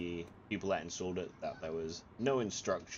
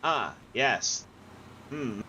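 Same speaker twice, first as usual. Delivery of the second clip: high, louder mock serenity; mock calm; 5 semitones higher, 3 dB louder, slower than usual. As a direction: pretend all is fine amid smoke. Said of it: "I was like".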